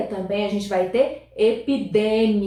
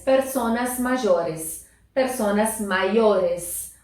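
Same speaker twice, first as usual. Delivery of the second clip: slow model phrase; slower than usual. Shown as a demonstration. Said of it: "a gente vai falar em espanhol".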